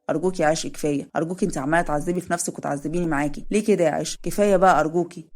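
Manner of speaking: a hint of the husband begging her; lightly voiced pleading husband. Zein begs his wife.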